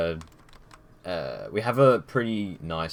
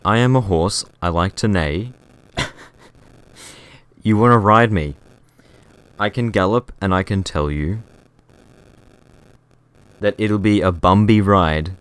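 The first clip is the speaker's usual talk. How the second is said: ASMR horse roleplay; 10 dB louder than usual. Pretend. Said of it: "the funny minute of A S M R".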